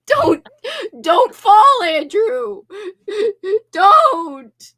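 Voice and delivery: high, loud warning shout; real sudden cry of warning; real alarmed call. Real, not acted. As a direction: call out to stop a fall. Calling out to falling Andrew.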